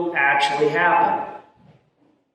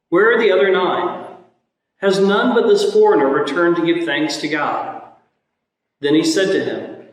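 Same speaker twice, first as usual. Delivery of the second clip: solemn scripture reading from the pulpit; Gospel reading. Acted. Priest proclaims the Gospel reading.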